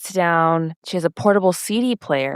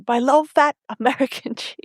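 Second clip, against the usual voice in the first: mock-precious laughing quote; 7 semitones higher than usual. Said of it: "He's like".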